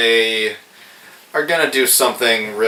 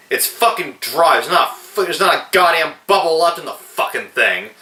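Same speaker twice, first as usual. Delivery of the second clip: higher, fast spoiled-brat rant; mock tantrum; 6 semitones higher, faster than usual. Reviewer imitating Chester ranting about the champagne, a fast bratty tantrum. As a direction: throw a bratty fit over flat champagne. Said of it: "he just goes nuts saying".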